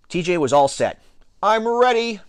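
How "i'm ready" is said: high, drawn call; shouted. A narrator's reading. T J all set to pitch, shouted. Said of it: "he shouted".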